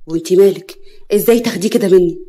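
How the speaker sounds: loud, indignant challenge; angry retort. Acted. Emam after Yara snatches his bag, angry. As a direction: lash out loudly.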